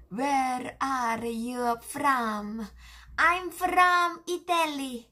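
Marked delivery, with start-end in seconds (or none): 3.2-5.1 put-on voice. Answers in an acted voice.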